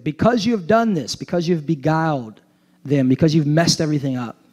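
preaching scripture reading. Acted. Reads the curse aloud.

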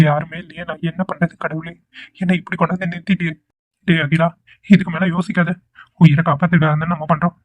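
soft anxious self-talk to God; quiet desperate prayer. Acted. Alone, desperate prayer to herself.

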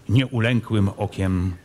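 ordinary delivery

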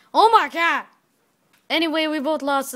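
loud, high astonished cry; surprised shout. Real, not acted. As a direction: blurt it out in shock. Reacting to surprise.

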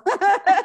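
high loud burst of laughter. Real, not acted. Woman laughing about people thinking she's shouting, loud laugh.

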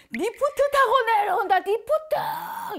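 high, loud shout, the last word slowly drawn out; trance shout. Retold or imitated. Shaman imitates the possessed novice, a high loud trance shout. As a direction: bellow it out in a trance. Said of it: "이래요".

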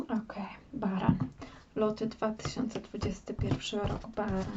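whispered card shuffle count; whispering. Acted. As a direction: murmur it under your breath.

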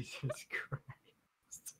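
whispered wheezing laugh; after laughing hard. Real, not acted. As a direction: exhale it spent.

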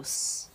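s as a long voiceless hiss; bare consonant. Shown as a demonstration. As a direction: hiss s with no vowel. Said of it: "因为前面有s".

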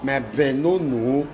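drawn-out mock praise call; imitated hailing. Wife hailing husband by his pet name, mock hailing. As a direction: slowly hail a spouse by pet name, imitating. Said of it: "begin dey call her gas name".

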